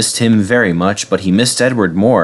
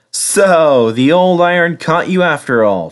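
higher-pitched, amused character voice; chuckling; 6 semitones higher than usual. A narrator's reading. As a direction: gently tease with a hint of a chuckle. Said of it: "chuckled Edward".

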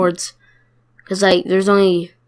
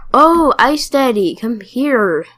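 mock sweet lure; 4 semitones higher, 4 dB louder, slower than usual. Luring a player to eat.

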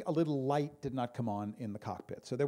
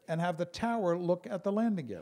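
pilot announcement; 5 semitones higher, 4 dB louder than usual. Retold or imitated. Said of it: "He goes".

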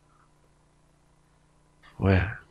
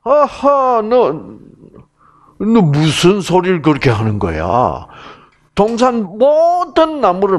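a hint of a scoffing man, raised voice; mock rational man; 8 semitones higher than usual. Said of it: "남자는".

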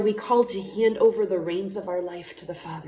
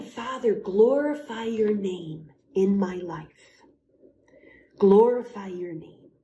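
praise prayer. Shown as a demonstration. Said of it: "It's saying".

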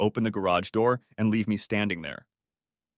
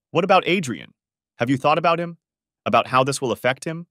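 loud, high, accusing questions; heated scolding, raised in pitch; yelling at daughter; 4 semitones higher, 6 dB louder than usual. A narrator's reading. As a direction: fire reproachful questions at her. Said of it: "caught her yelling at her daughter".

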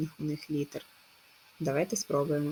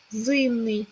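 зимний lifted higher, stress on И; check word stressed; 5 semitones higher than usual. Shown as a demonstration. Teacher giving the check word, higher with the И stressed. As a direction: lift зимний and lean on the И. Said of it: "за допомогою перевірочного слова".

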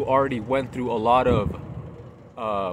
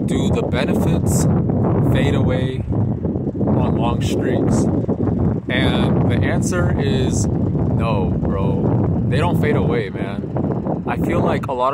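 loud; 7 dB louder, slower than usual. Real, not acted. Emphatic topic announcement.

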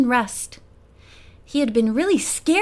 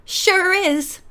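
mild chuckle; 6 semitones higher than usual. A narrator's reading. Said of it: "the voice chuckled".

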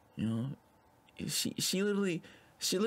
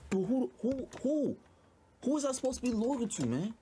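mock 6ix9ine; 5 semitones higher than usual. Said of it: "It's like".

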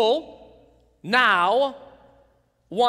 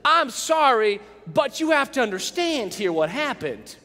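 fake apology. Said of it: "In a sense, we're saying".

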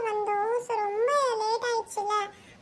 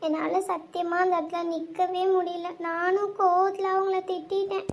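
tearful; 3 semitones lower than usual. Acted. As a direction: speak through tears. Crying girl tells her friends. (அழுகையுடன் மெதுவாக)

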